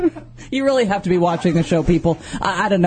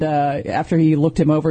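normal talking voice

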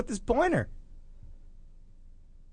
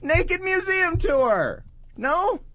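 slow hammed-up pitch; 11 semitones higher, much slower than usual. Pitching a naked tour.

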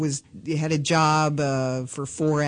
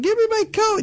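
shrill high demand for the coat, much louder; screaming girlfriend; 4 dB louder, faster than usual. Retold or imitated. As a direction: yell it like the furious girlfriend.

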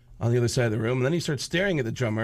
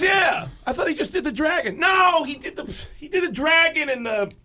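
mock rising panic; 9 semitones higher than usual. Drummer realises more tattoos.

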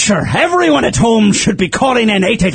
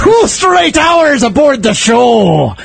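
pirate yell; 4 semitones higher, 3 dB louder, slower than usual. Acted. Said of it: "you will not be able to yell like this".

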